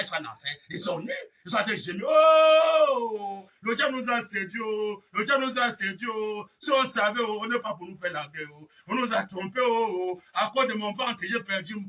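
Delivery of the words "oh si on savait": ordinary talk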